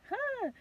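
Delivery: short high huh, kept small; stifle a scream into a small gasp; held-back scream. Retold or imitated. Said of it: "I didn't wanna really scream".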